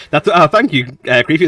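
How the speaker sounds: lightly creepy thank-you, high and loud; a hint of a creepy voice; mock creepy gratitude. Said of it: "That's what I was going for a little bit".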